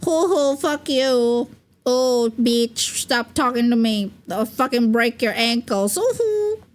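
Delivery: hammed-up cute tantrum trash talk; mock cute anger. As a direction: act tiny and furious, half-hammed. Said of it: "like, a cute anger".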